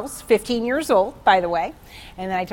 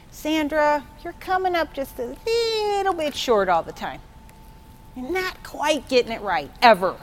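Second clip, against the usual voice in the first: scolding voice of God; 5 semitones higher than usual. Retold or imitated. Voicing a demanding God.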